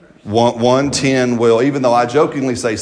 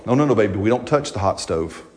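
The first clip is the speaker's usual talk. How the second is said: put-on gentle parent to baby. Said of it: "you love them".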